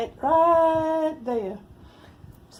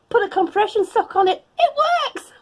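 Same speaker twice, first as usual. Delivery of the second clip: mock-triumphant, louder; louder mock praise for the sock advice; sarcastic cheer; 9 semitones higher, 7 dB louder than usual. Real, not acted. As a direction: throw the advice back with irony.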